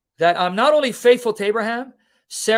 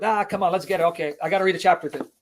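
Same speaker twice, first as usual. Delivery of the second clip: mock rushed reader; faster than usual. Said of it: "we just try to rush through it".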